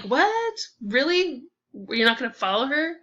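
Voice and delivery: can't believe he's staying; stunned at the date left behind; incredulous. Acted. Man doesn't follow slapping woman.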